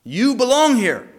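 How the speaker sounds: slow, then a high loud snap on belong; fed up, throw it back at him; frustrated retort. Retold or imitated. To the pacing cellmate in jail, a high loud fed-up retort. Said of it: "I said".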